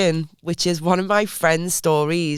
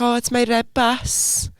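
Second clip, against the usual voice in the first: put-on slightly higher, drawn-out South Wales accent; imitated South Wales child; 5 semitones higher, slower than usual. Aunt quotes her little nephew, lightly put-on South Wales accent. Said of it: "he'd be like".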